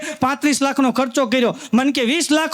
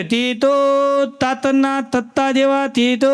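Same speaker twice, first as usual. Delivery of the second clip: slow stammered hawker's cry; stammering vendor call; slower than usual. Retold or imitated. Stammering vendor hawking chikoo on the train. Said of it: "એમ અવાજ મારે".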